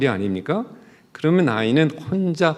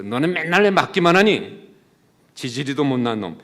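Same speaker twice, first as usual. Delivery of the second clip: scolding mother; 3 semitones higher, 4 dB louder than usual. Acted. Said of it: "이렇게 야단을 쳤다고".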